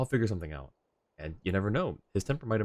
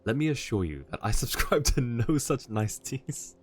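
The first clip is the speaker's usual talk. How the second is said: British butler, measured and formal; Alfred. Acted. Butler warning someone about his master's vow, politely threatening British voice. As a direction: put on a genteel British accent, politely menacing. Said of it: "Heck yeah, Alfred, you go".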